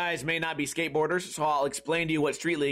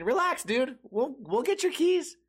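mock reassuring; 6 semitones higher than usual. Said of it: "And I kept saying".

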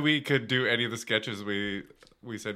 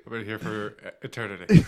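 rock voice; 5 semitones lower, faster than usual. Pretend. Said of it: "Kyle's impression of a rock".

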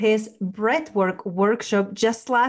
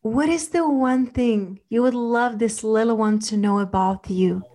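guided meditation. Acted. Leads a relaxation visualization.

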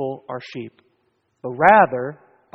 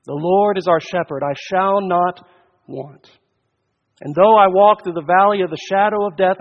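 loud, raised preacher's proclamation; forceful preaching; 3 semitones higher, 5 dB louder than usual. Real, not acted. Preacher to congregation on Christ's finished work, forceful preaching. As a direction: proclaim it from the pulpit, louder.

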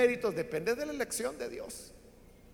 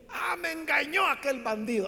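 anguished cry; 4 semitones higher than usual. Acted. Father cries out at deception.

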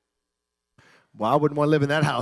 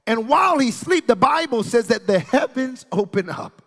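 preaching; 7 semitones higher, 5 dB louder than usual. Real, not acted. Preaches Jacob's dream and God's promise.

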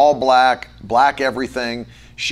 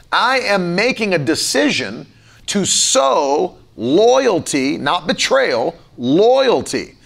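preaching; 5 semitones higher than usual. Acted. Pastor exhorts the congregation to sow kindness, preaching with rising force. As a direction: drive each word home from the pulpit.

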